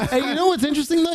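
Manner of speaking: fast, giggling through it; trying to hold in a laugh. Real, not acted. Stifling laughter.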